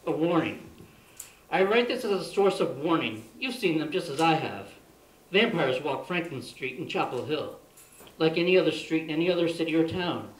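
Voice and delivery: measured recital of a warning; poem reading. Real, not acted. Poet reads vampire poem as a source of warning, measured recital. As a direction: read it out to warn the listeners.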